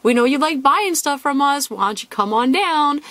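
playful imitation of an online store; pitchy store email. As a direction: coax them like a friendly promo email. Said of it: "was all like".

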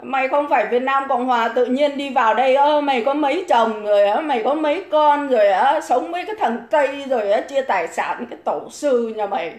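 rising, heated tirade at a viewer; angry rant. Real, not acted. (chửi dồn dập, giọng ngày càng gay gắt)

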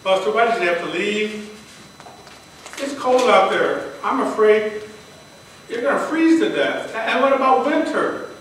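acted-out worried appeal; worried plea. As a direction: plead anxiously with someone who is missing. Pleading with his missing cat.

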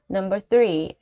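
ordinary talk, nothing marked

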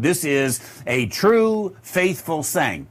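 weighty emphasis on "true, faithful"; emphatic. Acted. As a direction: stress on "true, faithful", each set apart. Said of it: "I'm emphasizing".

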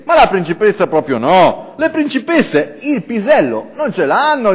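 lightly acted scolding from playmates; children's protest. Friends telling Zaf a boy cannot be princess, insistent protest. Friends' mock objection in story.

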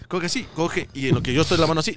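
usual speaking voice

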